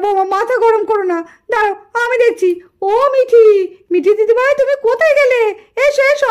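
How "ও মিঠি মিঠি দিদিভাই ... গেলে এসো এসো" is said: put-on loud call to a hiding child. Grandmother calls hidden granddaughter, loud calling. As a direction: sing out her name loudly.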